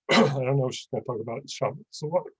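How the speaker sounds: strained, fading voice; losing voice. Real, not acted. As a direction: voice giving out. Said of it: "I'm losing my voice".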